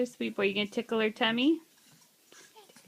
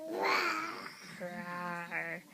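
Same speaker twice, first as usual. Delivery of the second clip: a gentle pretend roar for the toddler; lion roar; 4 semitones lower, 10 dB quieter than usual. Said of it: "What about a lion?".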